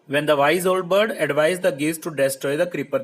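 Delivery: slow, careful textbook reading; reading the text aloud. Acted. Teacher reading the story line to pupils, slow and careful. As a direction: read each word out slowly for the class.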